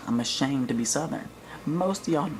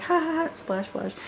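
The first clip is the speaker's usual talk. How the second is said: goofy dad. Retold or imitated. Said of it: "He's like".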